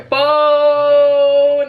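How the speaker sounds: sudden loud boom; loud exclamation. Real, not acted. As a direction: shout it out. Hype exclamation.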